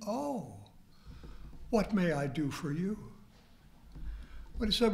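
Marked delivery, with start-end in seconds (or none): 0.1-3.0 voice totally changed. Retold or imitated. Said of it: "And the voice totally changed".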